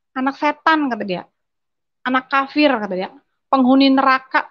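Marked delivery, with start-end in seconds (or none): 0.1-0.9 father yelling. Retold or imitated. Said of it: "Bapak saya teriak". 2.0-2.7 father yelling. Retold or imitated. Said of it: "Bapak saya teriak". 3.5-4.5 a loud, higher retold yell; father yelling. Father cursing his daughter for becoming Christian, loud retold yell. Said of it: "Bapak saya teriak".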